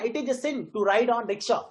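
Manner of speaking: slow line with "sin" brought out; stressed content words. Shown as a demonstration. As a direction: give weight to "sin", "ride" and "rickshaw". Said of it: "आप ऐसे तो बोलो ना".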